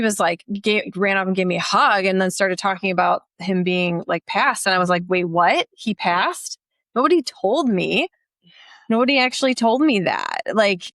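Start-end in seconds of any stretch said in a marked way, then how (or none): 5.1-10.4 re-enacted shock, rising in pitch; mild stunned protest, higher toward the end; retold disbelief. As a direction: act out being blindsided by news. Acting out learning dad had died.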